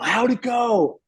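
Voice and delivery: high-pitched, eager question; bubbly retold mom voice; jazzed mom. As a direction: imitate an excited mom dying to hear the news. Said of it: "she was all, like, jazzed about it".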